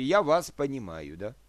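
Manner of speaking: normal talking voice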